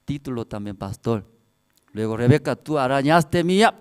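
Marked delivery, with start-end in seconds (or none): 2.2-3.7 louder mock accusation; retold scolding. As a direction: confront a child, acted out. Acted father confronting Rebeca.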